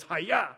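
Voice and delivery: a quick sword-strike cry "Hi-ya!"; toy sword noise. Retold or imitated. Dad mimics his son's toy samurai sword, quick cry. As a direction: imitate the toy sword's slash sound. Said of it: "it just goes".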